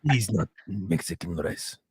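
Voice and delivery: low, slow mock Asian accent; hammed-up Asian accent, dropped low. Insisting the rice is fried, mock Asian accent. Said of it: "an Asian man".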